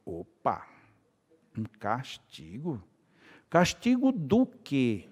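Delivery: slow, drawn-out astonished questioning; mock surprise. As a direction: stretch each word out in disbelief. Speaker reacts to "castigo.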